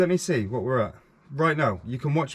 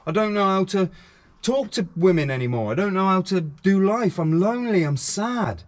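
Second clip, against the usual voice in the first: mostly higher-pitched, retold lament; imitated desperate plea; 5 semitones higher than usual. Men emailing him that they are lonely, retold plea. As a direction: voice a lonely man owning up.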